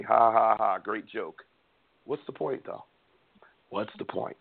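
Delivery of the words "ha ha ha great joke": flat fake ha ha, then dry; sarcastic laugh. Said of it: "Okay, you're funny".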